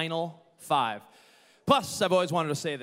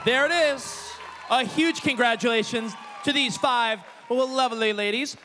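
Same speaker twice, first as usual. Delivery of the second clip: excited; 3 semitones higher than usual. Real, not acted. Hyping the crowd after reveal.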